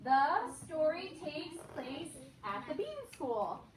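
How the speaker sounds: slow sung-out model sentence; broad singsong kids theatre. Shown as a demonstration. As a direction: lead the class in a chant. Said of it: "Listen one more time".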